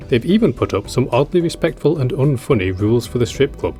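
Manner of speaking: ordinary talk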